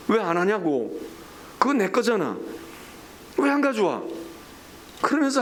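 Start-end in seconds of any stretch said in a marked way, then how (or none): 0.1-4.0 mock-stern demand climbing in pitch; voicing an exasperated reproach; acted scolding. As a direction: press for an answer, higher each time. Voices God scolding over withheld tithes.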